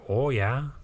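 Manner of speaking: lightly imitated Wisconsin accent. Shown as a demonstration. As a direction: say it with a Wisconsin lilt. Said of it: "It has that same, like".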